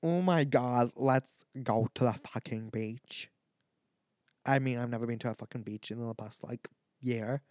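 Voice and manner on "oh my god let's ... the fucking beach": put-on light Irish accent, slowing down at the end; a hint of an Irish party girl. Mock Irish accent inviting friends to the beach. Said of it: "when I use my Irish accent".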